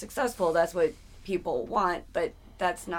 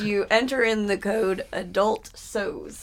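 mock ad read; 9 dB louder than usual. Joking fake sponsor ad read.

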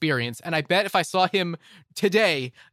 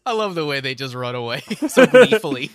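amused, breaking into a loud laugh; 8 dB louder than usual. Real, not acted. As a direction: crack up as you finish. Amused by the gleeful running away.

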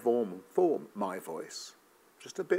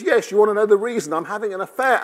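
joke confession; 9 semitones higher, 8 dB louder, faster than usual. Acted. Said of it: "And her friend says".

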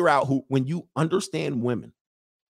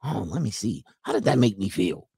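lower, put-on pondering voice; mock deep reflection; 5 semitones lower than usual. Comic mocking ladies examining feelings, mock-pensive. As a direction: imitate someone musing deeply. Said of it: "they got a deep".

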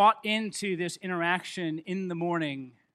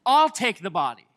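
sure Mary; 8 semitones higher, 7 dB louder than usual. Retold or imitated. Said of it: "she's so sure".

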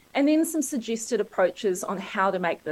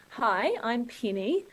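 slow, softened New Zealand accent on "Penny"; "Penny" said slowly with the Kiwi accent dropped a bit; toned-down Kiwi accent; 5 dB quieter, slower than usual. Shown as a demonstration. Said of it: "I'm trying to drop my Kiwi accent just enough to get my name out".

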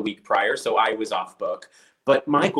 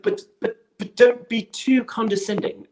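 imitating the director; 11 semitones higher than usual. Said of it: "he was like".

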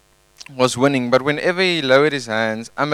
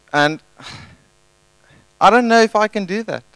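incredulous protest; 4 semitones higher, 3 dB louder than usual. Retold or imitated. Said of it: "I would have been like".

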